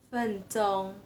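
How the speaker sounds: "Fen zhong" with both syllables in level first tone; first tone demo. Shown as a demonstration. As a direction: hold "Fen" and "zhong" evenly, both in Mandarin tone one. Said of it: "Nada satu semua".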